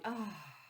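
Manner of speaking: soft ah of delight; contented sigh. Acted. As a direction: sigh happily. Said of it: "He sighs with delight".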